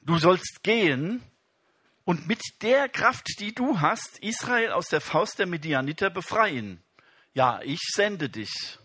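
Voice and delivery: a hint of a solemn divine command; voice of God. Preacher voicing God sending Gideon, solemn. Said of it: "wandte sich Jahwe ihm zu und sagte".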